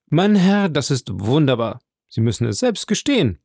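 a notary caught off guard by a marvel; astonished. Acted. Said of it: "sagte der Notar erstaunt". (der Notar staunt, zu Villefort gewandt)

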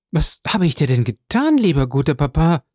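distressed question with a lifted voice; calling out. A narrator's reading. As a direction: cry it out to a beloved grandfather. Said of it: "rief Valentine".

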